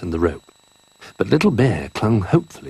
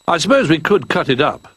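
put-on higher, small young bear voice; a lightly raised cub's voice; Little Bear voice; 9 semitones higher, 4 dB louder than usual.

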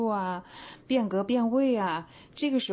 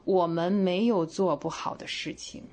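slow read. Shown as a demonstration. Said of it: "分开一下啊".

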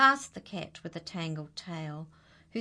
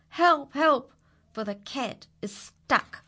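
calling for help; 7 semitones higher, 6 dB louder than usual. Acted. Cat stuck in tree, calling out.

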